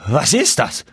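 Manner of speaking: slow, aghast exclamations; horrified. A narrator's reading. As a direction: recoil in dread at what stands in the doorway. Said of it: "rief mit Entsetzen". (mit Entsetzen gerufen)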